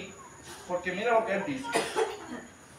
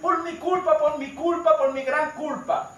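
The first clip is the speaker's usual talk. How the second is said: imitated ritual confession, slowing at the end; mock penitential recitation; 3 semitones higher than usual. Preacher mimicking Catholics confessing at church, mock penitential recitation. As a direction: recite it like a rote penance, starting raised.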